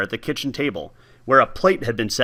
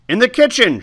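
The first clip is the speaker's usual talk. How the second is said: high, parrot-like squawk; 9 semitones higher, 4 dB louder than usual. Acted. Old neighbour directing the boy inside, squawking. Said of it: "she squawked".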